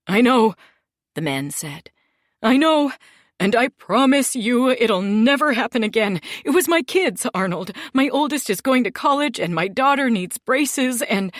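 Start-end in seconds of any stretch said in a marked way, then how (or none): 0.1-0.5 high, loud, frantic begging; desperate blubbering plea. Acted. Terrified man begging the boss for mercy. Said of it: "started blubbering". 2.4-11.3 high, loud, frantic begging; desperate blubbering plea. Acted. Terrified man begging the boss for mercy. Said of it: "started blubbering".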